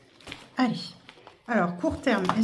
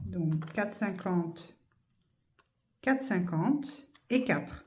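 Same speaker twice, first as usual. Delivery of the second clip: slow counting; 3 semitones lower, 6 dB quieter, slower than usual. Real, not acted.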